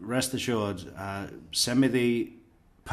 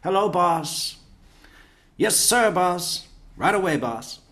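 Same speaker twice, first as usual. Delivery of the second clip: much higher, louder eager-to-please underling; subservient employee; 8 semitones higher, 5 dB louder than usual. Retold or imitated. Junior employee fawning over the boss, mock high squeaky voice. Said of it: "what a junior employee does to their boss".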